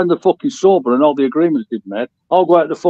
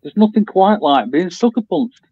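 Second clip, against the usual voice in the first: slowed down to be understood; slower repeat; slower than usual. Real, not acted. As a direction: say it over slowly for someone who missed it.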